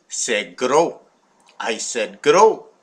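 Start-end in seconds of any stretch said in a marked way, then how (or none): 0.1-1.0 French phrase. Retold or imitated. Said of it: "That's French". 2.2-2.7 Gros said louder with a French r. Shown as a demonstration. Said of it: "That's French".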